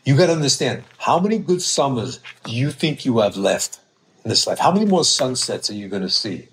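lightly voiced Brooklyn accent; Brooklyn guy. Brooklyn trainer lecturing about summers left, mild Brooklyn accent. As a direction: lecture like a Brooklyn know-it-all, lightly put on. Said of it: "He's from Brooklyn".

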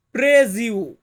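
প্রেজিউ said firmly; Portuguese word. Shown as a demonstration. Teacher models প্রেজিউ for students, careful Portuguese. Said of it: "Portuguese ভাষাতে বলা হয়".

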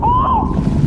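sudden high yelp; startled yell. Real, not acted. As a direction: jump in fright. Sudden fright underwater.

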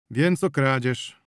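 kradzież repeated slowly, measured; slow repetition. Acted. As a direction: echo it back deliberately slow. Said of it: "powtórzył przodownik". (powoli, powtarzając kradzież)

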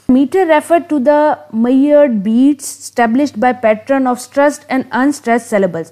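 reads the definition word by word, very slowly; slow dictation. Acted. Teacher dictating a definition of meter to students, very slow. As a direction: spell it out slowly so students can write it down.

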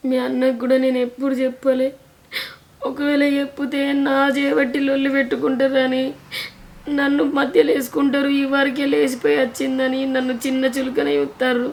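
acted crying, voice pushed out; tearful confiding. Wife telling sister-in-law why she hides her suffering, tearful. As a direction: let the misery spill out through tears.

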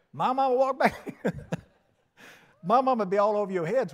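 loud and high, breaking into laughter mid-line; laughing. Real, not acted. Preacher joking about his own mama, laughing loudly. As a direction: crack up while telling it.

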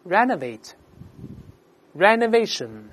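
slow, deliberate word drill; read-aloud model. Shown as a demonstration. Teacher leading students through a new word, read-aloud model. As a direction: pronounce it slowly for repeating, pausing between takes. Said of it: "分别读一下动词跟名词".

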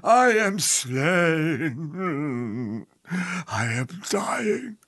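slow, dragged-out dying words; melodramatic death scene. Acted. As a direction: ham up a slow stage death. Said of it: "what in God's name is that?".

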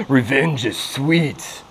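gloating. Real, not acted. After catching several bass.

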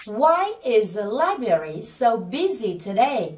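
slow, drawn-out model sentence; đọc mẫu chậm. Shown as a demonstration. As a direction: read it slowly so learners can repeat. Giáo viên đọc mẫu cả câu. (đọc mẫu cả câu chậm rãi)

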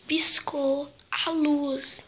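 slow frightened whisper; scared whisper. Real, not acted. Whispering scared in dark room.

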